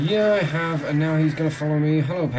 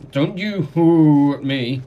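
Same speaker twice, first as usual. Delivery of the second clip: mock scolding; 2 semitones higher, 7 dB louder, slower than usual. Real, not acted. Scolding a tall bird.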